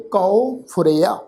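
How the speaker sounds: ਕਉ said as "kau" before ਫੁਰਿਆ; kanaura vowel. Shown as a demonstration. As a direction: open ਕਉ into an au glide, then ਫੁਰਿਆ. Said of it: "ਕਨੌੜੇ ਦੀ ਮਾਤਰਾ".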